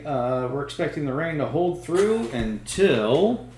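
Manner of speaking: weather report read like a TV anchor; smooth local news weather read; newscaster voice. Pretend. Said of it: "Let's put on my newscaster voice here".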